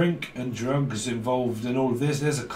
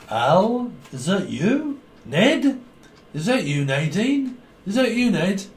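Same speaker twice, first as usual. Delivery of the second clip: put-on drunk calling names; 5 semitones higher than usual. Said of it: "Trust me, I've been drinking".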